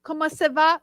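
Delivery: hammed-up French with a slow self-introduction; a silly fake French accent, playing dress-up in a fur hat; mock French accent. Trying on a fur hat, greeting friends in mock French. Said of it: "It sounded like an Indian".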